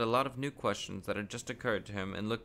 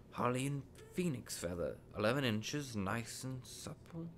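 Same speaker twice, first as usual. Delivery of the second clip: put-on musing old wandmaker; 4 dB quieter than usual. Wandmaker ponders an unusual wand for Harry, musing softly.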